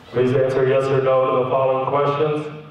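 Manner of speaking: low-pitched curt official; stern interrogator. Retold or imitated. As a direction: order them like an interrogator. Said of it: "the tone became immediately different".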